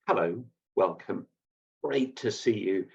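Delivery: intimate greeting. Shown as a demonstration. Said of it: "create intimacy".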